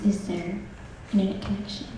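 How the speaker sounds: whisper. Retold or imitated. Quoting friends asking anxiously.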